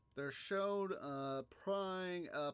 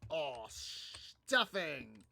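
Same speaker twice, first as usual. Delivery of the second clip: mock panic; 4 dB louder, much slower than usual. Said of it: "they're panicking because they realized".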